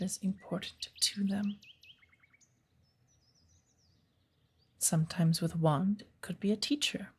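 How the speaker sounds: put-on unhurried, gently whispered old witch giving a lesson; lightly voiced wise witch patiently guiding her pupil. Witch teaches apprentice in woods.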